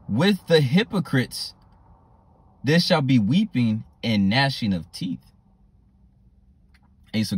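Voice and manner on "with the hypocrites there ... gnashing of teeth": slow, weighty Bible reading; scripture reading. Acted. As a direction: read the verse slowly like a warning.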